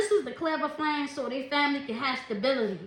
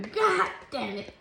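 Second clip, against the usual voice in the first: drawn-out mock curse; much slower than usual. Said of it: "that's what I'm hearing somebody saying".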